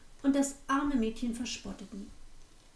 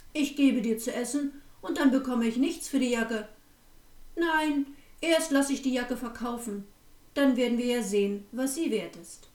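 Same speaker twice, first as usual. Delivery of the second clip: louder, curt innkeeper turning her away; gruff refusal; 4 dB louder than usual. Acted. Innkeeper rebuffing the hungry girl, louder and gruff. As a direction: brush her off with a louder, hard voice.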